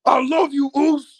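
high, loud hammed-up sobbing plea; mock crying Usos. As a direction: ham up a tearful brother's plea. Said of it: "and they're crying".

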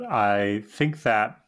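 slowed down by hiccups. Real, not acted. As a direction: speak through hiccups, halting. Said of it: "I have the hiccups".

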